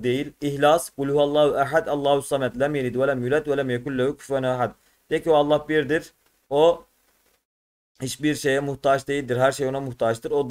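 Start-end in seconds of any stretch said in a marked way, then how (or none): 0.9-4.7 even, devout Arabic recitation; sura recitation. Acted. Teacher reciting Kevser sura for the class, in a devout recitation.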